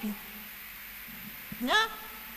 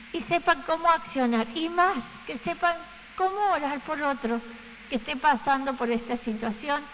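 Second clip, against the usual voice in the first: earnest spoken prayer; 3 semitones lower than usual. Acted. Preacher praying over her congregation in an earnest voice. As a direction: pray aloud for the congregation, steady and sincere.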